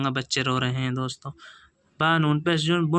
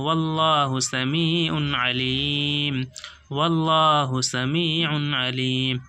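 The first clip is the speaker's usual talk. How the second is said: slow, measured tajweed recitation; slow Quran recitation; slower than usual. Shown as a demonstration. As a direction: draw the words out slowly, chanting. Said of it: "teacher recites the full phrase".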